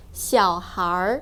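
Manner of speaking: 小孩儿 slowly, with an er sound closing it; retroflex er ending. Shown as a demonstration. Teacher showing the er sound at the end, slow retroflex 小孩儿. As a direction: draw out 小孩儿 and curl the tongue at the end. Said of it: "there's a er sound at the end".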